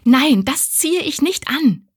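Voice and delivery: high, loud and slow, stress on ziehe; disgusted refusal. Acted. Abby refusing to wear the rag, loud and revolted. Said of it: "rief Abby voller Abscheu".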